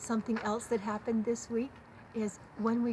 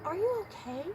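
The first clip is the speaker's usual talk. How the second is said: higher-pitched, caring question; acted tender check-in, pitched up; imitating concern; 9 semitones higher than usual. Friend with a hand on her arm, voiced with concern. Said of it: "expressing their love for me and their concern".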